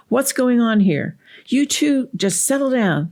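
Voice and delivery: high-pitched scolding parent walking in; acted stern telling-off of two kids; yelling parent. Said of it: "the parent is yelling at the child".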